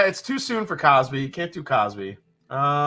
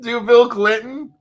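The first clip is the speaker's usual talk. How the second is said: higher, questioning lift; amused disbelief; 5 semitones higher, 4 dB louder than usual. Real, not acted. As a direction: echo the request as if it's absurd. Repeats request after laughing at it.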